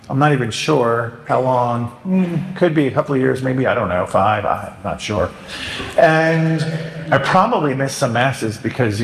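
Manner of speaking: hesitant, wandering mock penitent; vague rambling confession. Shown as a demonstration. Priest mocking a vague confession, hesitant and rambling. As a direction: ramble vaguely, unsure of everything. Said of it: "Do not say".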